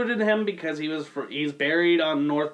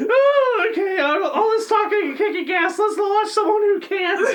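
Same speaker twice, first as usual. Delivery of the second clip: high, loud laughing host voice; hammed-up intro; 13 semitones higher, 3 dB louder than usual. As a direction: announce the next clip like a giddy host.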